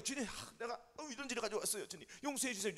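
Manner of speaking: softly acted confession, halting; penitent prayer. Believer bringing sins before the Lord, soft halting plea. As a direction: plead quietly, with small hesitant breaks.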